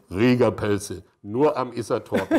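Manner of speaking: "Rieger-Pelze" tiefer und lauter wie ein Sprecher; Werbe-Slogan. Retold or imitated. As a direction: setz den Schlussslogan mit tiefer Sprecherstimme. Slogan am Jingle-Ende. ("Rieger-Pelze" tief und laut als Schlussslogan)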